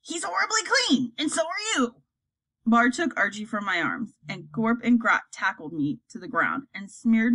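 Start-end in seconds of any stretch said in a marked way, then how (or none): 0.0-2.0 higher, disgusted troll voice; troll mother scolds about being clean. Acted. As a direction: wrinkle at the cleanliness.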